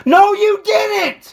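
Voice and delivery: high, drawn-out contradiction; heated, exasperated rebuttal; angry denial. Real, not acted. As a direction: throw it back at them, stretched out. Heated family quarrel.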